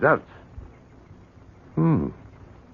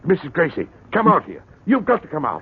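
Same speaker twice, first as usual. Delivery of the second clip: excited calling; 9 semitones higher, 4 dB louder, faster than usual. Acted. Urging neighbour to come out.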